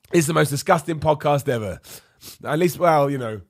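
rough sick voice; hoarse voice. Real, not acted. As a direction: voice going from illness. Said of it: "as my voice continues to".

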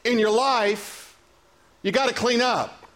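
slow, spaced phrases, falling on "got"; slow emphasis. Shown as a demonstration. Preacher spelling the point out to the church, slowly. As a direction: drive home "you got some stuff in your life" unhurried. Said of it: "What I'm saying is".

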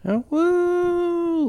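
high cheering yelp as a fake studio audience; mock woo. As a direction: whoop like a canned audience.

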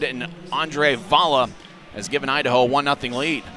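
rapid hockey play-by-play. Real, not acted. Live hockey radio call.

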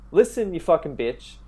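짜증 섞인 반박 대사를 약간 크게 흉내; angry retort. Retold or imitated. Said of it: "Fucking angry now".

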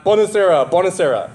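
a light Godfather imitation; Godfather impression. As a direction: call the name like the Don. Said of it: "He says like this, he goes".

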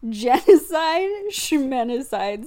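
slow, dismissive villain line; mocking Idris Elba. Mocking the villain's line in the movie, slow and dismissive. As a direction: drawl it out, waving genocide away. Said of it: "said by Idris fucking Elba".

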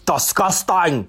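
slow, hammed-up prim disapproval; mocking imitation. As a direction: parrot it back with distorted vowels. Parodies the co-host's disgusted verdict.

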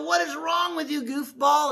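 high, quick challenge from a jailer; a hint of an exasperated jailer; lightly voiced jailer. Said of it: "the jailer will come in and go".

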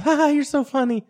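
high-pitched imitation of her laughing it off; mock giggly girl. Girl takes his anger as a joke, high mock amusement. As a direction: mimic a girl who thinks it's a joke.

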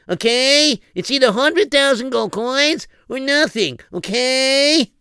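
scheming prince. Acted. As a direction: gloat like a greedy scheming prince. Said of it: "and he said".

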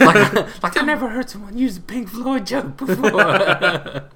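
high, slow, through laughter; amused by the nurse's joke, laughing through it; laughing while talking. Real, not acted. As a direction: tell it while cracking up.

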